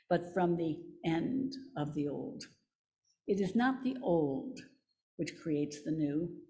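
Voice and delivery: solemn reading. Acted. Reader to congregation, solemn and measured. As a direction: read it like a weighty quotation. Reads Tillich quote aloud.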